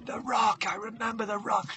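hushed inner voice, recalling; thinking aloud. Acted. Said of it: "he's thinking".

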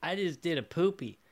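put-on a light child's voice rising high on Daddy; toddler voice. Toddler Billy asking his dad, lightly voiced child. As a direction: play a hint of a worried little kid. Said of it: "Billy's looking at him like".

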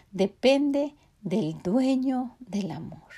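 slow, whispered emphasis on dueño. Real, not acted. Preacher tells the women who love depends on, slow hushed whisper. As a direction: let it sink in, hushed and slow. Key point of the sermon.

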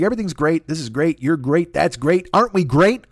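lightly put-on upbeat patter, lifting at the end; sing-song fake positivity, building; mock cheerful. Mocking his own texts, everything great, fake cheer. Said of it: "Nobody's that fucking cheerful".

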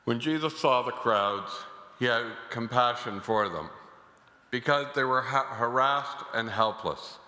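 solemn liturgical reading; Gospel reading. Acted. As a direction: proclaim the Gospel at mass. Priest proclaims the Gospel.

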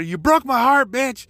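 hammed-up pretend scream of heartbreak; imagined angry scream. Imagining yelling at the ex-girlfriend who dumped him, mock angry yell. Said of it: "Just fucking scream at her".

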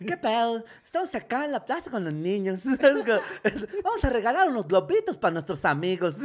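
payasito callejero un poco agudo; voz de payasito. Retold or imitated. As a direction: anima a los niños como payaso. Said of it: "el tonito de payachito". (payasito de plaza, voz aguda)

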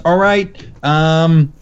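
lightly put-on New York accent. Caller imitating the call center guy, amateur New York accent. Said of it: "he did have an accent".

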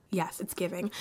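talking around a sip; while sipping a drink. Real, not acted. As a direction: take a sip mid-sentence. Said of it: "Let me take a sip of that".

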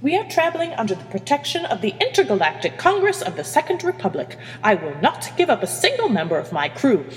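steely, commanding captain. Acted. Captain refuses to give up her crew, steely. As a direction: lay down the law with steel. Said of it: "The steeliness in Hermione's voice".

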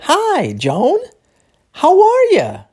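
high "Hi, Joan", swooping up then falling on "are ya"; exclaiming and asking. Acted. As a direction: greet a friend, exclaiming as you ask. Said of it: "exclamando e perguntando ao mesmo tempo".

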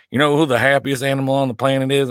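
a light, bad attempt at Ted Lasso's Midwestern accent; half-hearted Midwestern coach accent, barely put on; Ted Lasso impression. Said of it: "I don't know how to do his accent".

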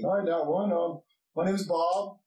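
a hint of a friendly gatekeeper; friendly dwarf guard. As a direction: introduce yourself in a slightly lifted voice. Guard introduces himself in character.

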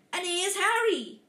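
giant voice. A narrator's reading. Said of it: "said the giant".

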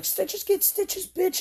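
high, slow cartoonish taunt; mock tough-guy taunt. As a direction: sneer it out like a cocky brawler. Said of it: "I'm just always like".

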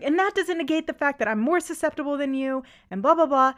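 heated retort running into dismissive blahs; retold anger. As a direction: imitate someone arguing on and on. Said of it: "taken back by her anger".

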